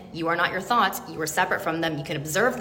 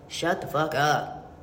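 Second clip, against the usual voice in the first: firm rebuke; 4 semitones lower, 3 dB quieter, much slower than usual. Pretend. Telling off the parrot mind.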